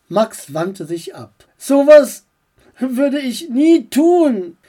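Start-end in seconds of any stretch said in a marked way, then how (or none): 1.6-4.6 loud, high, slow refusal; mild mock indignation; indignant. Max refusing worms, loud and high.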